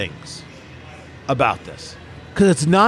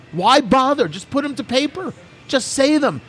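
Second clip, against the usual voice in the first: much higher, sing-song mocking child; mock childish voice; 8 semitones higher than usual. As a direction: scorn her by playing a naive kid.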